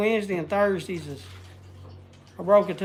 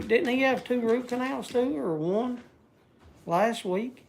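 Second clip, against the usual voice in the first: burping while talking; 4 semitones higher, 3 dB quieter than usual. Real, not acted. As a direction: talk through a burp. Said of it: "Sorry, I'm burping".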